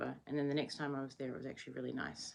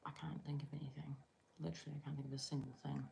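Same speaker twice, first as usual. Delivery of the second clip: whispering; 8 dB quieter, faster than usual. Real, not acted. Quiet late-night musing.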